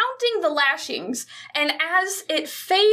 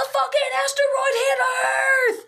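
panicked shout; 9 semitones higher, faster than usual. Retold or imitated. Crowd crying out to Rico that an asteroid hit, panicked shout. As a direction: yell it like the world just ended. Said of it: "And they're like".

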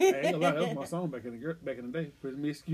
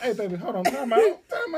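put-on flustered boyfriend; 7 semitones higher, 5 dB louder than usual. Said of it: "he gonna be like".

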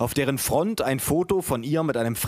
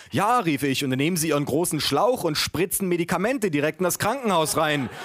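higher-pitched, hammed-up eager agreement; mock enthusiasm; 4 semitones higher than usual. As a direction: pile on with feigned excitement. Mock enthusiasm in family chorus. (gespielt begeistert)

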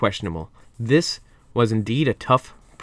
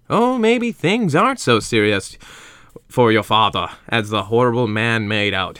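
a light raised housekeeper voice; Hannah's voice. Acted. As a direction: lightly play the kindly housekeeper. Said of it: "Hannah said".

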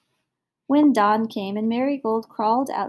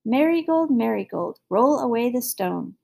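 calling out. Acted. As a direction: call from outside the door. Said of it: "till you hear me calling".

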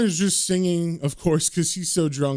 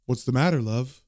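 lower, lightly voiced ghost; ghostly voice; 4 semitones lower than usual. Ghost husband appears behind her, lightly ghostly and low. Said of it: "a ghostly voice says".

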